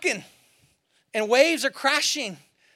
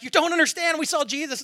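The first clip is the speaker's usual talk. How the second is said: insistent women; 5 semitones higher than usual. Retold or imitated. Ladies insist to disciples.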